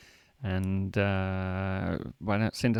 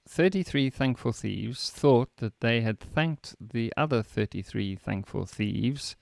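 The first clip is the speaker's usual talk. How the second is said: slow careful practice; slower than usual. Real, not acted. Learner repeating slowly.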